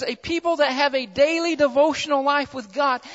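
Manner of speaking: "daily" given deliberate emphasis within the phrase; stress on daily. Real, not acted. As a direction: lean on the word "daily". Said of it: "I'm emphasizing that word daily".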